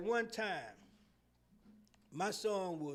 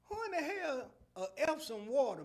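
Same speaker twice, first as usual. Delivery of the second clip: incredulous; 5 semitones higher than usual. Retold or imitated. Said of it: "I said".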